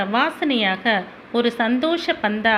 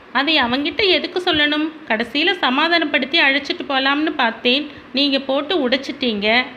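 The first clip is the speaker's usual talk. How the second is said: reproachful mother; 3 semitones higher, faster than usual. Acted.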